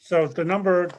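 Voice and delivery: ordinary delivery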